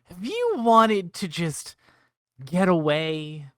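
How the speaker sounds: slow, sales-pitch build with rising hooks; infomercial pitch. Acted. Owen pitches his advice like an infomercial. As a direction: sell it like a late-night ad. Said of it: "Is this an infomercial?".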